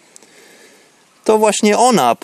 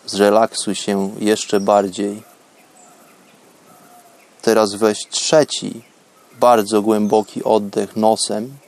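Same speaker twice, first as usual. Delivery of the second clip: guided meditation; 4 semitones lower than usual. Acted. Prowadzi medytację oddechową. (spokojny głos medytacji)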